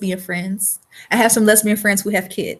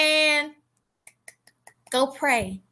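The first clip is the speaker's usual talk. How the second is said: soft closing words, trailing away; fading quiet; 7 dB quieter, much slower than usual. Real, not acted. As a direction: send them off gently, softer. Closing blessing to audience.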